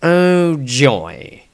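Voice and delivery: dry mock cheer on oh, joy; deadpan fake delight; sarcastic exclamation. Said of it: "exclaimed Dieter sarcastically".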